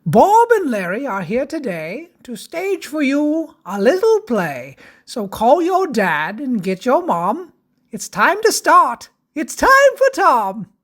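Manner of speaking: put-on lively rhyming read for children; bouncy children's story introduction; storybook narration.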